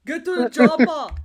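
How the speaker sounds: loud barked order; shouted movie line. Pretend. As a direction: yell it like an action hero. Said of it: "movie quote".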